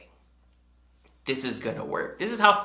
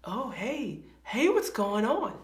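a nervous hello once you see their face; awkward hello; 8 semitones higher, slower than usual. Retold or imitated. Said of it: "and it's like".

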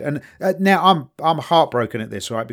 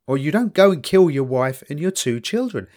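ordinary talk

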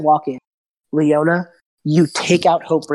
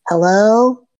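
higher, slow, plaintive; a pitiful lost little voice; lost child voice; 4 semitones higher, much slower than usual. Acted. The wisp luring the hag with a lost voice. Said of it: "you hear it go".

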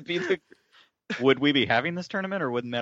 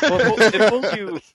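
emphatic; 11 semitones higher, 8 dB louder, much slower than usual. Real, not acted. Emphatic restart.

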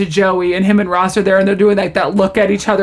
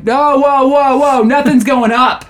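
higher, mock-alarmed protest; Joey; 6 semitones higher, 4 dB louder, slower than usual. Joey refusing the doctor's procedure, alarmed. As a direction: stop them in hammed-up alarm.

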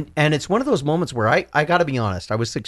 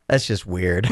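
low-pitched take on an unimpressed wife; lightly voiced wife, pitched down; imitated wife; 6 semitones lower, slower than usual. Husband quotes his wife's reaction to the clip, lightly imitated. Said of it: "That sounds like her".

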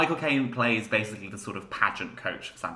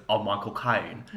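badly faked Cockney accent; a rough stab at a Cockney accent; Michael Caine. Friend shows how the actor sounds, bad Cockney impression. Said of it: "That was a terrible Michael Caine impression".

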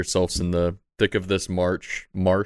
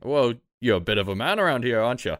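stable man voice; 4 semitones higher than usual. Acted. Stable man Tony keeps talking.

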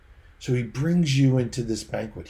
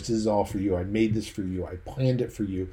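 loving voice. Acted. King assures his invited soldier of his love, lovingly. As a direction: say it tenderly, as to someone cherished. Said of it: "says to you in a loving voice".

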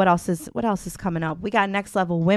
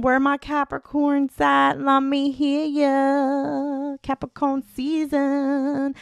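hype call-out; 6 semitones higher, much slower than usual. Acted. Calling out to fellow Capricorns.

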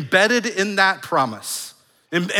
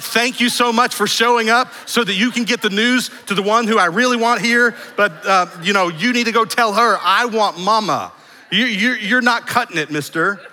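put-on cheeky toddler; 6 semitones higher, 5 dB louder than usual. Toddler's imagined snub to dad.

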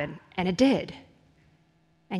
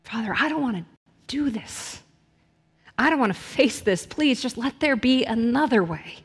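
a raised, pleading cry to the Father, voice catching; Jesus pleading with the Father in the garden, anguished cry; anguished plea; 2 semitones higher than usual. Retold or imitated. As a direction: beg not to face what's coming. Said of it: "he cried out to his Father".

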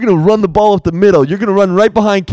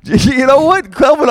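coach yelling; 7 semitones higher than usual. Acted. Coach scolding player in huddle.

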